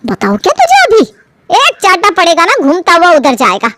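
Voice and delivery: high, scolding threat of a slap; mother threatening her child with a slap; angry threat. Acted.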